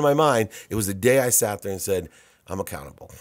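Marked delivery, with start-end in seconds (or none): 2.5-3.1 soft, heavy words of owning up; choked-up quiet admission. Retold or imitated. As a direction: say it low, like it costs you. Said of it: "I still get choked up".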